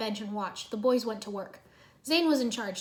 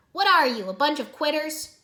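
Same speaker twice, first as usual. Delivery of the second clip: louder, higher challenge; demanding; 5 semitones higher, 8 dB louder than usual. A narrator's reading. Jay challenges his teammates, demanding. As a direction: demand it of the team. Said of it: "Jay demanded".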